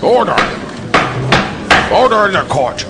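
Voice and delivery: bang the gavel and shout; commanding shout. Acted. Judge calls court to order.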